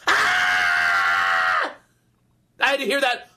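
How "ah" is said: put-on long harsh kid's scream; one sustained, piercing imitation scream. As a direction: scream like an out-of-control child. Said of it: "It was this".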